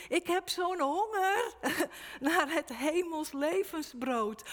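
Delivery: loud, high crying out with a break; preacher crying out as the hungry Holle Bolle Gijs. Retold or imitated. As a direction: call out a starving believer's plea. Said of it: "en die roept".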